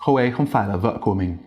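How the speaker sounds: quick sentence with phải dropping, no rise; phải passed over quickly without coming back up; no rising ending. Shown as a demonstration. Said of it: "pitch didn't rise at the end at all".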